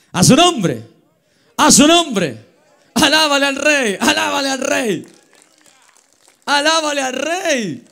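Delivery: grita a la congregación, alto y fuerte; grito de alabanza. Real, not acted. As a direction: exhorta a alabar al rey a voz en cuello. (el pastor a la congregación, grito de alabanza)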